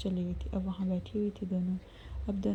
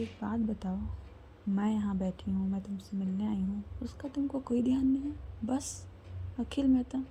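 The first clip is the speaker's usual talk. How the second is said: angry. Retold or imitated. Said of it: "साक्षी एकदम गुस्से में बोलती है".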